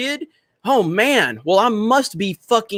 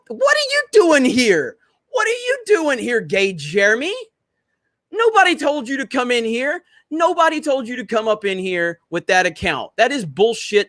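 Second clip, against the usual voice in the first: much higher, wailing mock-hurt voice; mock upset whine; 6 semitones higher than usual. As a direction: whine like you're pretending to be deeply offended. Mock upset at chatter's username.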